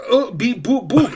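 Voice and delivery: high beeping robot syllables; even machine gun syllables. Pretend. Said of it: "Hello, I am robot".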